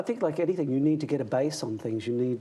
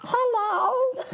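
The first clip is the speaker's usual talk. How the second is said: put-on very high, louder baby "Hello" through a laugh; little baby voice; 5 dB louder than usual. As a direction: greet them like a tiny baby. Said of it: "I do the little baby".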